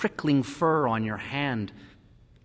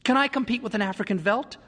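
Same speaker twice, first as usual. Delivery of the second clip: higher, pleading woman's voice; distressed wife; 9 semitones higher than usual. A narrator's reading. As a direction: plead from feeling useless. Lydia pleading about the house.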